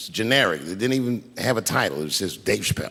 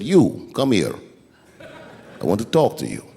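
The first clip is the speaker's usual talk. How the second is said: slow, lower-pitched retold summons; unhurried, cool command, easing lower; calm mobster; 3 semitones lower, slower than usual. Old mobster summoning young comic in alley, calm as a cucumber. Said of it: "he was calm as a cucumber".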